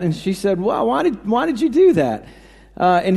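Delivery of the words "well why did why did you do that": wife's voice jumps higher in shock; a wife thrown by bad news, pitch up; shaken disbelief. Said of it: "the wife was obviously, you know, shaken by that".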